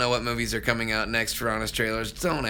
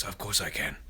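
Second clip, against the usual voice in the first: Samurai Jack voice; 2 semitones lower, 7 dB quieter than usual. Acted. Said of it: "Can I do a Samurai Jack voice?".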